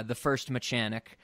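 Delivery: Mechanic said as muh-CHAN-ic, with a CH; mispronounced Mechanic. Shown as a demonstration. Host naming the film, Mechanic as muh-CHAN-ic. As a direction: say Mechanic with "chan" stressed in the middle. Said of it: "that's how it's pronounced".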